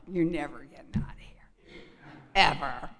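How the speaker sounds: soft spooky whisper; ominous whisper. Retold or imitated. The hospital gates closing behind you, ominous whisper. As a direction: breathe it like a threat.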